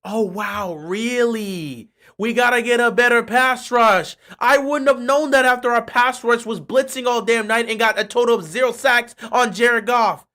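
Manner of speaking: mock amazement; sarcastic surprise. Fan mocking the coach with sarcasm. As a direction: pretend to learn it.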